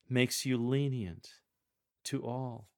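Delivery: tender, smiling "Makes you lenient to all"; tender answer. Shown as a demonstration. Coach demonstrating the answer, tender and smiling. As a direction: answer the question gently, with a smile. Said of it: "Smile and use a tender tone".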